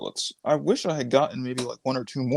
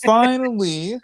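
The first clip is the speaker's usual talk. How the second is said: laughing; 10 semitones higher, 3 dB louder, slower than usual. Real, not acted. Laughs at chat opinion.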